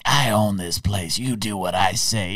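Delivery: lightly voiced tough mobster; a hint of a mob boss laying down the law; mobster impression. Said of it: "How, how was my mobster impression?".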